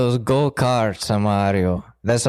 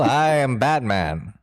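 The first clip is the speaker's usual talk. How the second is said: Batman voice. Pretend. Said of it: "how Batman talks".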